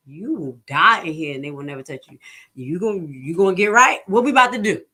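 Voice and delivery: retold stern warning. Retold confronting spitting patient.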